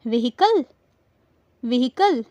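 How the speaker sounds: "व्हीकल" with h sounded, vi-HI-kul; wrong pronunciation. Shown as a demonstration. Teacher quizzing learners with the wrong form, "व्हीकल" as vi-hi-kul. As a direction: breathe an h inside "व्हीकल": vi-hi-kul. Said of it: "मैंने जो बोला वो तो गलत था".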